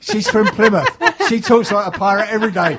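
loud, high hammy West Country pirate; pirate accent. Pretend. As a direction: bellow it like an old sea dog. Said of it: "Why do all pirates come from Plymouth?".

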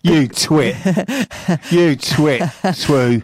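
lightly voiced owl-hoot pun; playful twit-twoo call; mock owl call. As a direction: tease as if hooting like an owl. Co-host answers owl hoot with pun.

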